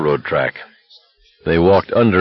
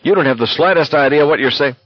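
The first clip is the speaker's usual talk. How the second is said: angry retort, raised pitch; furious yell; 7 semitones higher, faster than usual. A narrator's reading. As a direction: scold him with mild fury, voice higher. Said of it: "Garrity yelled at him furiously".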